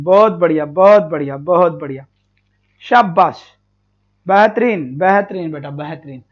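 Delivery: repeated praise, pitched well down; approving praise. Real, not acted. Teacher to students sending good comments, low approving praise. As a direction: drop low and praise them.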